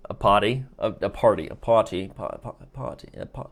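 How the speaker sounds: trying out "party" in an English accent; attempted English accent. Shown as a demonstration. Streamer struggling to say "party" in an English accent. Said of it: "I don't know why I can't say that".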